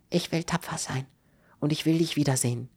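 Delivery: tearful resolve. A narrator's reading. Sick woman clinging at parting.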